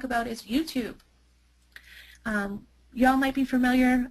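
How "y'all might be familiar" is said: slipping into a Southern twang; Southern US accent. Real, not acted. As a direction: let a touch of Southern y'all creep in. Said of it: "I just went Southern there".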